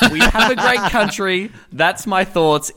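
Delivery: slow laughing echo of Trump; Trump quote. Retold or imitated. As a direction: repeat the line with a chuckle, slowly. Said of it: "quoting Trump again".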